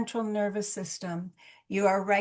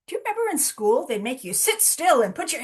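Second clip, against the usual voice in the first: lively recall; 3 semitones higher than usual. Real, not acted. Lively recall to Zoom group.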